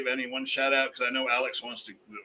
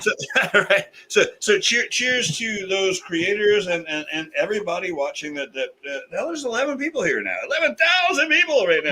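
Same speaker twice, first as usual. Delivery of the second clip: liquored up; 5 semitones higher, 6 dB louder than usual. Real, not acted. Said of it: "I'm kinda liquored up 'cause I'm four shots in".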